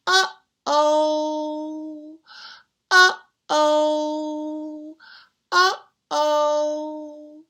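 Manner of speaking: long mock-worried uh-oh; drawn-out uh-oh. Storyteller warning children, long mock-worried uh-oh. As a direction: stretch each uh-oh out slowly.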